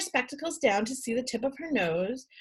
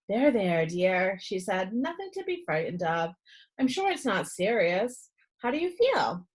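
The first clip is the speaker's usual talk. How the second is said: soothing nurse; 2 semitones lower than usual. Acted. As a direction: settle a scared boy gently. Nurse comforts frightened boy.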